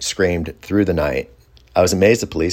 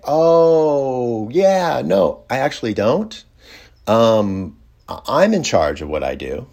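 pitched-up cheerful refusal that holds its ground; mock-sunny but firm; polite refusal; 3 semitones higher than usual. Retold firm refusal to host.

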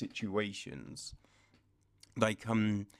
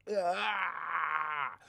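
mock pained gasp; 3 semitones higher than usual. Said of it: "just see her face be like".

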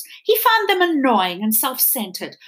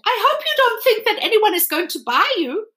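high, haughty doll taunt; sneering doll; 12 semitones higher, 4 dB louder than usual. Acted. The china doll taunting Edward that nobody will buy him, sneering. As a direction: sneer down at the rabbit.

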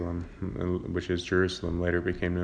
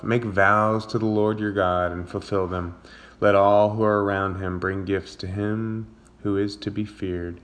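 scripture reading. Acted. Pastor reading a psalm to listeners, measured read.

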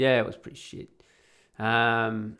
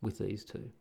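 softly imitating a discreet word of advice; quiet warning; 5 dB quieter than usual. Regular warns him as he leaves with two cougars, quietly. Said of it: "said to me very quietly".

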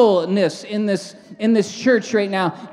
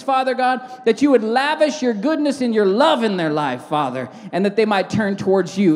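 fervent, measured prayer led aloud; congregational prayer. Real, not acted. Pastor lifts the nation's leaders to God, fervent prayer. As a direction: pray earnestly in rolling phrases.

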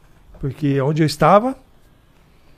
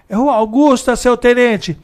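higher, louder radio report voice; old cop on the radio; 8 semitones higher, 5 dB louder than usual. Retold or imitated. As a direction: report crisply to the lieutenant. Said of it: "o antigão fala assim".

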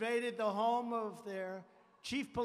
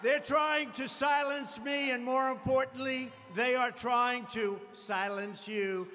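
rally speech. Acted. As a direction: rouse the crowd against enemies.

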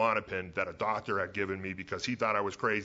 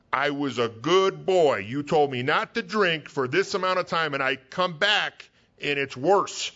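aggrieved drinker; 4 semitones higher, 5 dB louder, slower than usual. Retold or imitated. Voicing the drinker's indignant complaint.

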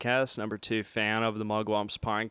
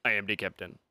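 low-pitched attempted Somali accent; 5 semitones lower, 4 dB quieter, faster than usual. Shown as a demonstration. Guest attempting Nigerian accent and landing elsewhere, Somali accent. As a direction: try a lowered Somali-accented voice. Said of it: "no, that's Somali".

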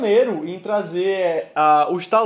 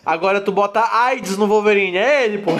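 laughing shout; 2 semitones higher, 3 dB louder than usual. Real, not acted. Joke punchline laughing shout.

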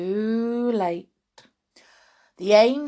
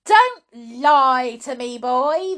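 loud, raised scolding; shouting old hag; 4 semitones higher, 8 dB louder than usual. Acted. Grandma accuses George of lying, shouting. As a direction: bear down on the boy. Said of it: "the enormous old hag shouted".

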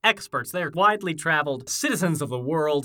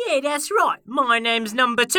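high, nasal-free cartoon voice; high character voice; 7 semitones higher, 5 dB louder than usual. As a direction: pipe up as a sidekick. Number Two voice.

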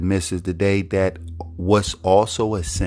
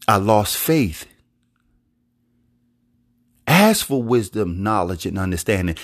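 sample honest prayer. Shown as a demonstration. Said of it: "Be honest to God".

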